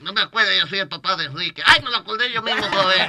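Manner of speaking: put-on light Castilian Spanish accent, lisped c and z; mock famous singer speaking with a Spanish accent; playful Spain Spanish accent put on lightly. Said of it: "se le fue el acento".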